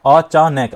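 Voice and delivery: "अचानक" as अ-चा-नैक, final syllable altered; distorted split. Shown as a demonstration. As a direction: break "अचानक" so that नक turns to नै-क. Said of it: "अब ध्वनि बदल गई इसकी". ("अचानक" को बिगाड़कर अ-चा-नै-क बोलें)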